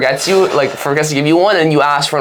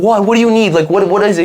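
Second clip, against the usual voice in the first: mock irritated teacher; 4 semitones higher than usual. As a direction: play the busy teacher who was interrupted, short on patience. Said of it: "And she's, like, angry".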